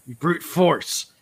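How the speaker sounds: mock exhortation. Gimel scolding Kel, acted.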